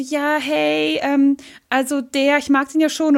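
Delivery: a hint of coy girlish gushing; coy Cassandra. Retelling the game, lightly voicing Cassandra's crush. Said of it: "hat sie irgendwie gesagt so".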